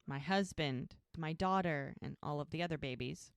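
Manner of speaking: gently imitating a grieving woman; so sad. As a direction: list the losses with understated sadness. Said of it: "she's just so sad".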